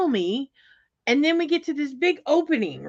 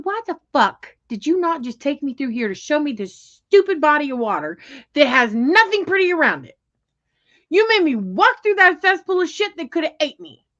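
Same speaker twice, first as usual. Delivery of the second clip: louder, rising, fed-up retelling; retold angry rant; 4 semitones higher, 5 dB louder than usual. Yelling at boyfriend over bug-filled path, mock angry. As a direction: re-enact the rant at him. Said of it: "I said".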